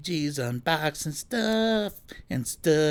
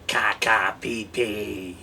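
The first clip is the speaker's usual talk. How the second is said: put-on silly baby talk; 6 semitones lower, slower than usual.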